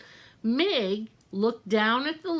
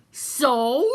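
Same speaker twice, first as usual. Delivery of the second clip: louder dismissive So; shouted; 3 semitones higher, 6 dB louder than usual. Acted. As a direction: bark it back unimpressed. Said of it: "shouted Cook".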